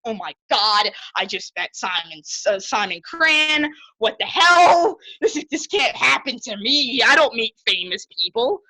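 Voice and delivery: worked-up retelling of star-struck panic; freaking out. Retold or imitated. Fan retells meeting a famous musician, freaking out. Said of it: "I was freaking out in my head".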